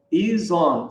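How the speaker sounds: "is on" joined as one word; words linked. Shown as a demonstration. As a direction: slide the z of "is" into "on". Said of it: "fazer a ligação". ("is on" emendado numa palavra só)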